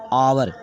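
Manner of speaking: आवर with no H sound, opening on the vowel; silent H. Shown as a demonstration. Teacher showing students the word's reading, आवर with silent H. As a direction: say आवर starting straight on a long open vowel. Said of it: "इसे पढ़ेंगे आवर".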